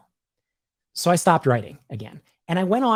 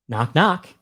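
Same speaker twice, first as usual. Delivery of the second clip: joke teller knocking; 5 dB louder than usual. Pretend. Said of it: "I'll just do both sides of the joke".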